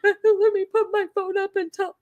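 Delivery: high mocking whine; mock whiny voice. Host mocking the singer filming herself, mock whine. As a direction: mimic her setting up the phone. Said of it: "And she's like".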